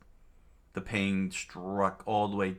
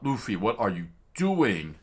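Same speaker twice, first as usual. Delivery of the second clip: exasperated yell, louder and higher; mock outraged shout; screaming; 3 semitones higher, 4 dB louder than usual. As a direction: holler it, stretching the last word. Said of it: "Solo screamed out".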